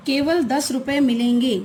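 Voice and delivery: केवल given strong emphasis; stress on केवल. Shown as a demonstration. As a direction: punch the word केवल. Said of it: "केवल शब्द पर हमने अतिरिक्त बल दिया है".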